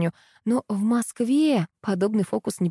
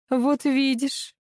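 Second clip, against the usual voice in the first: slow, higher, lecturing; preachy; 6 semitones higher, much slower than usual. A narrator's reading. Mother lecturing her grown son, slow and preachy. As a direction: drag it out like a told-you-so lesson. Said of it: "назидательно произнесла Капа".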